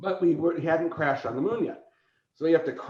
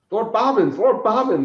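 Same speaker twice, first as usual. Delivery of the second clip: high, loud frantic calling; 9 semitones higher, 8 dB louder than usual. Retold or imitated. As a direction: call out urgently for the lord. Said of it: "he goes".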